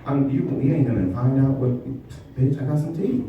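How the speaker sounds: sassy, high gossip voice; a hint of sassy gossip; zesty gossip. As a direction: spill the tea with sass. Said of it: "I act really zesty".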